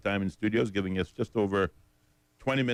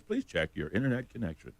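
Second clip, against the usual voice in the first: automated voice; 4 dB quieter than usual. Retold or imitated. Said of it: "automated voice".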